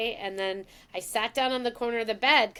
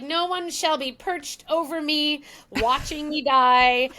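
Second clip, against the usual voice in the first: slow, louder, hammed-up proclamation; mock grand declaration; 5 semitones higher, 6 dB louder, slower than usual. Daughter imitating her mother's dramatic refusal of a deathbed vigil. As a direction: play the proud matriarch.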